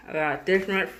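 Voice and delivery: talking around a pin held in lips; pin in mouth. Real, not acted. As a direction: say it with a pin between your lips. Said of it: "I got this pin in my mouth".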